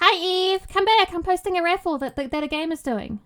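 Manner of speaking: high, loud excited welcome; excited greeting. Real, not acted. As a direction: call out to a friend happily.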